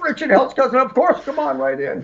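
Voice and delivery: high, goofy airhead voice for the gullible staff; mock dumb doorman. Guest mimics gullible backstage staff, high goofy airhead voice. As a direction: play the stupid guys waving him in. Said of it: "They're like".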